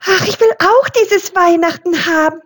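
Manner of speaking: high, chirpy little bird voice; longing little bird, voiced high; twittering little tit. A narrator's reading. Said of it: "zwitscherte eine kleine Meise".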